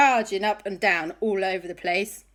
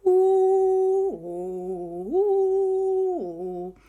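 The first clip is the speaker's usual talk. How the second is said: ghostly ooh; 12 semitones higher, 4 dB louder, much slower than usual. Acted. Ghosts moaning.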